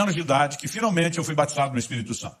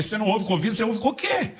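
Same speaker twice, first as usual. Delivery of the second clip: higher-pitched, incredulous questioning; baffled; 5 semitones higher than usual. Retold or imitated. Baffled teen questioning his pastor.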